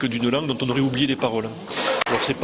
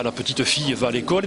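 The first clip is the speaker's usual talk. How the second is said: Toulouse accent, "petite" with every syllable sounded, la pe-tite; Toulouse accent, a stress on each word of "la petite fille va à l'école"; Toulouse accent, each syllable of "petite" pronounced and each word stressed. Shown as a demonstration. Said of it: "il aura une accentuation sur les mots".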